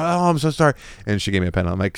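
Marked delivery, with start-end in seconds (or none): 0.0-0.7 higher, mildly imitated apology; apologetic. Booth lady apologizing to customer about the pen, imitated apology. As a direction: lightly act out an apologetic clerk. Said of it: "she was so apologetic".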